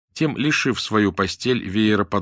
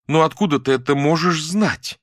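higher, louder indignant question; 7 semitones higher, 4 dB louder than usual. A narrator's reading. Muza objects to Dasha's gossip, indignant question. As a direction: protest in disbelief. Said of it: "возмутилась Муза".

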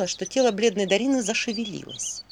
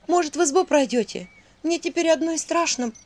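trembling voice; 7 semitones higher than usual. A narrator's reading. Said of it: "дрожащим голосом спросила Иринка".

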